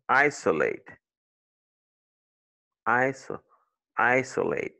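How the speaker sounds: "isolate" broken down as EYE-suh, then EYE-suh-late; schwa in isolate. Shown as a demonstration. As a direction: show the weak "uh" in "isolate". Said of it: "prononcé comme un schwa".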